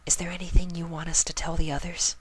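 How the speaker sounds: high timid mare voice; shy girl voice. Acted. Shy friend asks.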